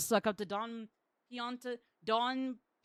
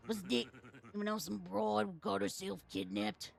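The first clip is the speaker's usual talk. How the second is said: put-on Brooklyn accent. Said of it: "I can do a Brooklyn dialect".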